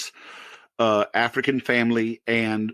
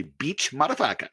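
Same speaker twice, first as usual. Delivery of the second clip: lightly imitated African English accent; conversational mock African accent; 2 semitones higher, 3 dB quieter than usual. Shown as a demonstration. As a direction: say "motherfucker" as "madafaka", African-accented. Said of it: "in the thickest African English accent".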